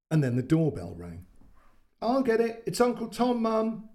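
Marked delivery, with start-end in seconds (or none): 2.0-3.9 put-on high excited child yell. A narrator's reading. Boy yelling to mum that uncle has arrived. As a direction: call out eagerly from the kitchen. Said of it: "Toby yelled".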